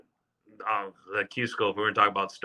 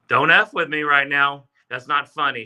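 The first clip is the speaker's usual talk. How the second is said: mock disbelief outburst; 5 semitones higher, 7 dB louder than usual. Disbelief at wife's good news.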